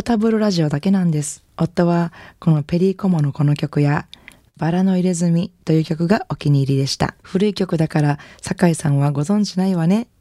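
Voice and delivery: gentle, slightly lifted reading of a listener's letter; letter read on air. Acted. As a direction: read an elderly widow's postcard with care. Reads a listener's letter aloud. (リスナーの手紙を優しく読み上げる)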